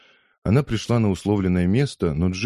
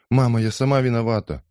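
mild tearful plea, a bit higher; a hint of sobbing daughter; lightly acted crying; 6 semitones higher, 3 dB louder than usual. A narrator's reading. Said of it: "прорыдала Салли".

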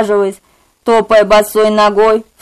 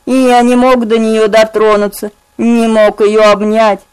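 ordinary delivery

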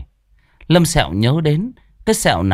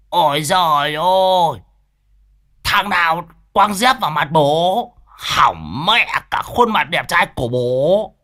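higher, slow whiny lament; aggrieved wail; 7 semitones higher than usual. Acted. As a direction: moan over a ruined face. Lão Đồng complaining after crash. (rên rỉ than vãn)

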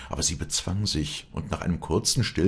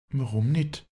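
turning pale; 10 semitones higher than usual. A narrator's reading. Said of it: "fragte Walli erbleichend".

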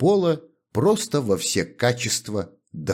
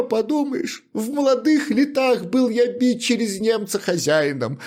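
high, wailing lament over his fate; self-pitying shoemaker, wailing high; 4 dB louder than usual. Acted. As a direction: bemoan a whole life of beatings, high.

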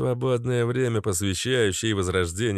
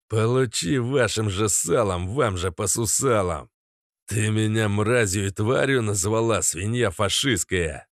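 righteous anger; 2 semitones higher than usual. Acted. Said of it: "изобразил я праведный гнев".

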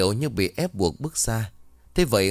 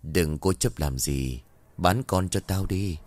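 ghostly voice; 2 semitones lower, slower than usual. Acted. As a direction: drag each word out like a spirit by the well. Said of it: "Một giọng cười lanh lảnh vang lên".

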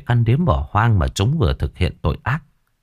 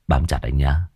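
gangster lover; 5 semitones lower than usual. Acted. Killer telling his lover to hold on tight, low and possessive. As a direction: keep it low and intimate. Man warns lover, in character.

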